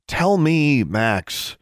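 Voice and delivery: high, urgent plea; pleading. A narrator's reading. Sister begging brother for the truth, pleading. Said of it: "she pleaded".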